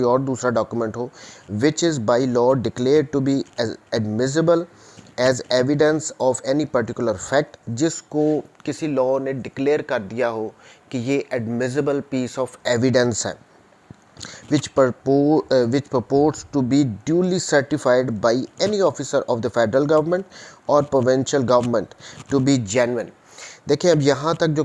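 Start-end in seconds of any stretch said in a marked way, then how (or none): 1.5-7.6 slow, measured dictation of the law text; reading statute aloud. Shown as a demonstration. Lecturer reads statute text aloud. 14.5-23.1 slow, measured dictation of the law text; reading statute aloud. Shown as a demonstration. Lecturer reads statute text aloud.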